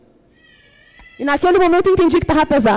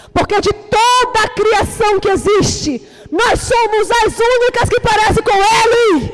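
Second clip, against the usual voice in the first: preaching at full force; 5 semitones higher than usual. Acted. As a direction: build the list up to a triumphant shout. Preaching climax.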